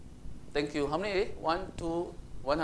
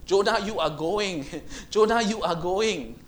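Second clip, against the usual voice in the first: insistent call; 3 semitones higher, 5 dB louder than usual. Acted. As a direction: call Jonah back, rising insistence. God insisting, repeated louder.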